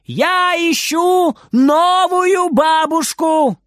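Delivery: very high, loud, slow shouting; full shout. Acted. Boy shouts at grandma from the wardrobe. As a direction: scream it so she hears.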